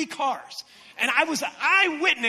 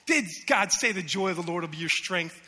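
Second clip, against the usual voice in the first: lowered voice of the deceiver; insinuating tempter; 5 semitones lower than usual. Acted. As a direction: question it low, planting doubt. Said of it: "The enemy whispers these things".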